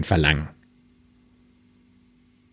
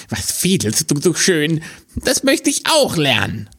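higher, eager little hare; 8 semitones higher than usual. Acted. Hare asking the fiddler to teach him, higher and eager. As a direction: chirp it out as a small timid hare.

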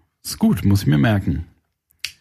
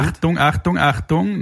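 higher, raised announcing call; warning call; 6 semitones higher than usual. Shown as a demonstration. Acting out the raised-finger emoji as a warning. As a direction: call it out like a mild alarm. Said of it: "der erhobene Zeigefinger".

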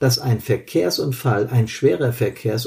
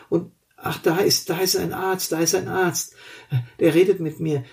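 dazed injured man; 3 semitones higher than usual. Acted. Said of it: "Die Perspektive des Verletzten".

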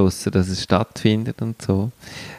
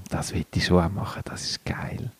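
hushed whispered aside; whispering; 3 semitones lower, 8 dB quieter than usual. Real, not acted. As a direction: whisper it under your breath. Quiet aside about the treehouse.

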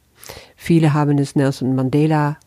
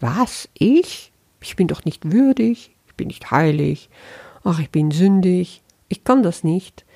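mock self-doubting whine, pitched up; whiny doubting ego; 4 semitones higher than usual. The ego talking the listener out of their worth, in a whiny voice. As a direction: play the ego protesting it isn't worthy. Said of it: "Weil das Ego sofort sagt".

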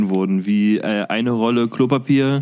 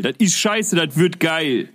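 higher slogan; 5 semitones higher than usual. Acted.

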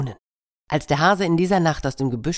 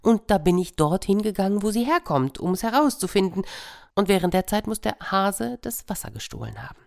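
higher, dreamy monkey raving about the music; a higher, wistful monkey voice; monkey's voice, dreamy; 6 semitones higher than usual. Acted. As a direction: swoon over the most beautiful music. Monkey's voice held.

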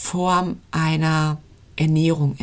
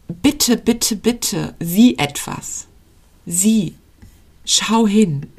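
pleading soul; 3 semitones higher, much slower than usual. Acted. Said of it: "die, die ruft".

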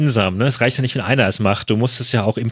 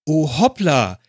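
hammy stage actor; 7 semitones higher than usual. Retold or imitated. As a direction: overplay the fake accident like bad theatre. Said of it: "dieser theatralische Aussetzer da". (theatralisch übertriebener Schauspieler)

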